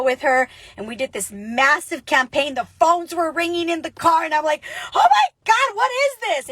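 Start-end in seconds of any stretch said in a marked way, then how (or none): 4.9-6.5 shocked cry. Retold or imitated. Panicked at phones ringing in car.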